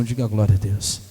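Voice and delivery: low, booming call for a response; deep-pitched, forceful pulpit call; loud call to congregation. Real, not acted. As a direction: belt out a congregational prompt. Preacher calls congregation to respond.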